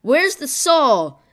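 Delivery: slow aching lament. A narrator's reading. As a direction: mourn the missing soul, drawn out. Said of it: "Jimmy lamented".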